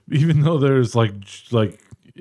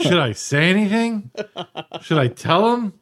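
laughing; 8 semitones higher than usual. Retold or imitated. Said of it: "I'm like".

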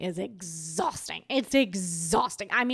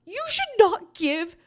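emphatic warning; 10 semitones higher, 7 dB louder than usual. Real, not acted. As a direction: drive the advice home. Warning listeners about men.

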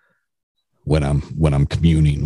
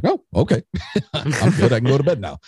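put-on higher, light childlike relief; little kid voice; 9 semitones higher than usual. Young son reassured about the closet monster, high childlike. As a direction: sound like a small boy reassured at bedtime. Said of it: "he'd be like".

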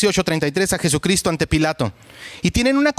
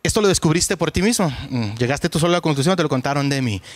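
sarcastic; 4 semitones lower than usual. Retold or imitated. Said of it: "el sarcasmo y la burla".

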